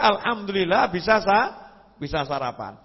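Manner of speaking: quick content thanks, no lingering; "Alhamdulillah" said at normal pace with a lifting end; cheerful thanks. Retold or imitated. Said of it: "Justru dia".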